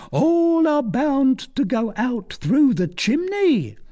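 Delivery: high-pitched tavern sage spinning witch lore; falsetto. A narrator's reading. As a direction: hold forth in a piping falsetto, stretching the words. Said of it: "in a falsetto voice".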